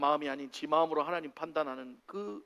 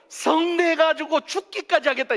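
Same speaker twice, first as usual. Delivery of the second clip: high, loud, drawn-out angry cry; throwing a tantrum; 11 semitones higher, 10 dB louder, slower than usual. Acted. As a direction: act out a furious sulk to the death. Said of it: "막 승질을 벅벅 내고 있는".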